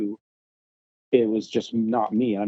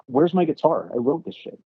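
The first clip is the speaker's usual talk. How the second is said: raised-pitch, affronted challenge; retold indignant demand; 6 semitones higher than usual. Guitarist asking bandmates where his guitar went, indignant. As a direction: act out demanding an answer from bandmates. Acted argument over missing guitar.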